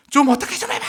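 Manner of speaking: high, loud outburst of a fed-up husband; exasperated shout. Retold or imitated. Tired husband to his wife over the crying baby, exasperated shout. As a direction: cry out sharply in exasperation, pitch leaping up. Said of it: "이렇게 외치죠".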